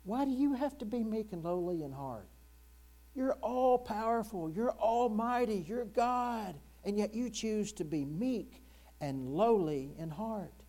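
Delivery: high, protesting challenge to God; incredulous inner voice. Acted. Preacher's inner voice questions God's meekness, incredulous and high. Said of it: "this unspoken voice in the back of my mind".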